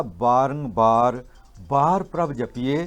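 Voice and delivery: slow, measured verse quotation; scripture recitation. Retold or imitated. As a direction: recite the sacred line with drawn-out words. Quotes scripture to listener. (Gurbani ਦਾ ਹੌਲੀ, ਠਰ੍ਹੰਮੇ ਵਾਲਾ ਉਚਾਰਨ)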